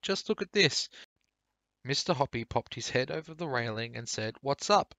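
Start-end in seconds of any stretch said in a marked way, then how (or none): 0.0-0.9 very high, loud excited call; thrilled shout. A narrator's reading. Mrs Silver showing off her tortoise, high and loud. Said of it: "she was shouting". 4.4-4.9 high, loud call over the railing. A narrator's reading. Mr Hoppy leaning over the railing, calling loud.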